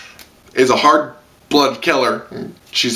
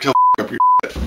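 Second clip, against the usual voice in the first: squealed high fuck up your shit; mock awe; much faster than usual. Viewer reacting to Sion snapping, high squeal. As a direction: squeal it in gleeful shock. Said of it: "you're like".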